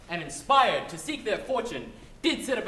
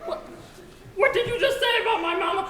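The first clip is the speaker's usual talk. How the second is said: higher, louder affronted demand; indignant; 12 semitones higher, 6 dB louder than usual. Acted. Pig three indignantly demands an answer. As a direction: challenge him with sass. American pig takes offense.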